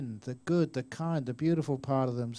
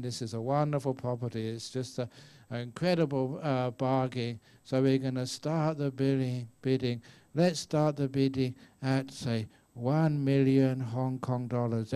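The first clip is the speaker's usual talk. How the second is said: auctioneer opening. Retold or imitated. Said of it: "they start off and saying".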